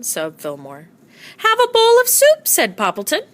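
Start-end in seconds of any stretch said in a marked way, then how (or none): 1.4-2.5 friend's voice. A narrator's reading.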